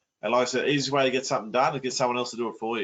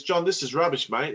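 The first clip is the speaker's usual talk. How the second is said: higher-pitched mock complaint; mildly upset; 4 semitones higher than usual. Bob rings John to complain about paying rent, mildly upset. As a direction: act out a mildly upset mate griping. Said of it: "he's very upset".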